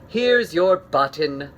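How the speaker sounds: loud, slow call; hopeful call. Acted. Frog calling to Toad from the woods, loud. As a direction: call it out slowly.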